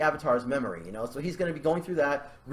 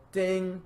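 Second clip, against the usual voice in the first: higher, held "ding" like a chime; imitated ding; 4 semitones higher than usual. Author voices a character's sudden realization, chiming ding. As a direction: sound a little bell of realization. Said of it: "is gonna be like".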